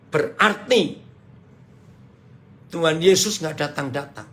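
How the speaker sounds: usual speaking voice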